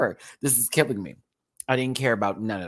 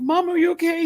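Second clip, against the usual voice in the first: high cat voice; 7 dB louder than usual. Pretend. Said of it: "So I'm like".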